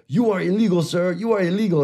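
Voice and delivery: high-pitched imitation of the caller; indignant scam caller. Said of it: "And he's like".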